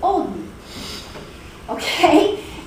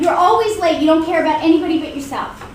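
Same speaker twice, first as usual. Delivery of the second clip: accusing complaint; 2 semitones higher, 4 dB louder than usual. Acted. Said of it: "So instead of".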